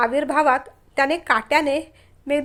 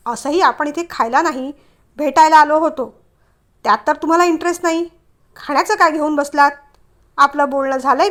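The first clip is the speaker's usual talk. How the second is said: louder, irritated brush-off; irritated man; 5 dB louder than usual. Acted. Man fed up with inattentive date, louder and irritated. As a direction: cut her off, annoyed. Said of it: "चिडून".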